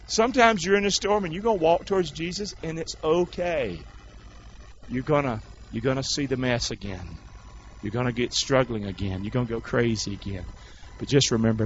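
low, soft pastoral reassurance; hushed consoling preaching. Real, not acted. Preacher comforts strugglers in the storm, hushed consoling preaching. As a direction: bring it down, gently counsel.

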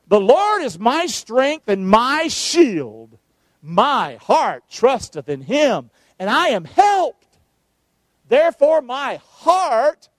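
slow, measured psalm reading with weight; slow scripture reading. Acted. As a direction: read each phrase like a proclamation. Reads psalm aloud slowly.

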